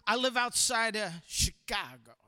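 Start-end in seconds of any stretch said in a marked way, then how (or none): 1.3-2.2 Midwest accent. Shown as a demonstration. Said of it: "Minnesota Midwest accent say".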